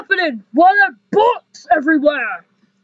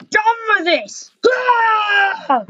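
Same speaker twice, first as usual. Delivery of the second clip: higher crying shout; hammed-up outburst; 4 semitones higher, slower than usual. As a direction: yell it like a fed-up teen. Son snaps, throwing things out.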